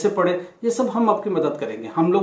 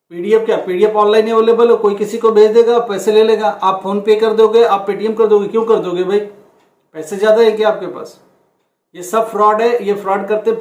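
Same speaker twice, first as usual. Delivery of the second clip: louder, heated telling-off of students; raised voice, fed up with the fraud; exasperated scolding; 2 semitones higher, 5 dB louder than usual. Real, not acted. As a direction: scold them hard for wasting money on scams. Scolding students about paying scammers.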